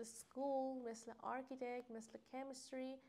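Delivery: سکول، آرکیتکت، کمیستری each said with a "k"; "k" sound for ch. Shown as a demonstration.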